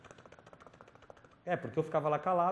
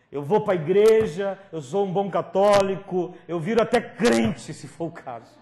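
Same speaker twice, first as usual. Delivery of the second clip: desperate prayer; 6 semitones higher, 12 dB louder than usual. Retold or imitated. Kneeling boy begs God to save him, loud high cry. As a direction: beg God at the top of your voice.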